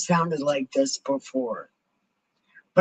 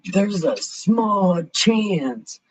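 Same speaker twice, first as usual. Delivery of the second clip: slow, drawn-out mocking repeat; stretched-out sarcastic echo; 3 semitones higher, much slower than usual. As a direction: throw the doctor's words back slowly. Throwing the doctor's words back.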